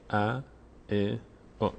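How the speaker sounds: ا، ا، او said as brief a, e, o; unstretched a, e, o in turn; short vowels. Shown as a demonstration. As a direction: cut each vowel short, with a gap between. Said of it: "زیاد کشیده نشه".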